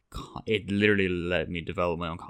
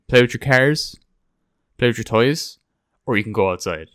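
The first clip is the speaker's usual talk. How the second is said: upbeat parent offering choices; 4 semitones higher, 10 dB louder than usual. Retold or imitated.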